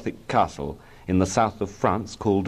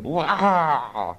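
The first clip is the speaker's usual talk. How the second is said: higher-pitched "wah" let out; outward wail; 7 semitones higher than usual. A narrator's reading. Small boy about to cry as mother grabs his hand, outward wail.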